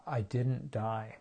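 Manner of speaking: slow, stunned realization; slow astonished inner voice. Retold or imitated. Inner voice after surviving panic, slow and stunned. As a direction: let it sink in slowly, amazed. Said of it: "this voice inside my head went".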